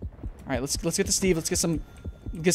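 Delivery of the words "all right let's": ordinary talk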